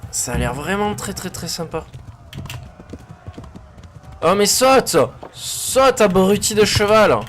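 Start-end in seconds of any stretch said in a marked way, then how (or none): 4.2-7.2 yelling at horse. Real, not acted.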